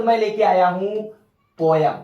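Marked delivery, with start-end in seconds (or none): 1.6-1.9 पोयम said as poy-um, the common wrong way; wrong pronunciation. Shown as a demonstration. Teacher showing the wrong way students say it. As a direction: say पोयम like poy-am with a flat ending. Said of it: "क्या पढ़ते हो".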